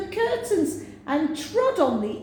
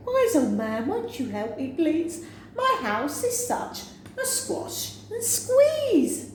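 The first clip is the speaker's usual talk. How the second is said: put-on pleading old woman; 6 semitones higher than usual. Refrain plea.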